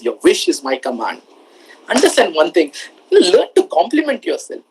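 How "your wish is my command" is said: deep genie voice; low and grand like a genie. Retold or imitated. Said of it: "because genie says".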